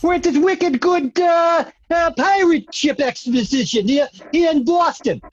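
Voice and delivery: put-on tour guide in a light Boston accent; a hint of Boston, wicked good and all. Tour guide greets visitor, light Boston accent. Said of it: "my Boston accent's".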